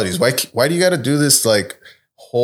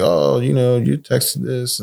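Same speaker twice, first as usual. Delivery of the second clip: prim HR lady; slower than usual. Retold or imitated. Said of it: "she's doing all the professional things".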